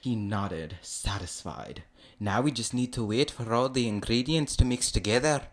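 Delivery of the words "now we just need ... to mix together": higher, badly faked Scottish voice; bad Scottish accent. Shrek explaining the soup, bad Scottish accent. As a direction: attempt a Scottish ogre, clumsily. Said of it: "That was really bad".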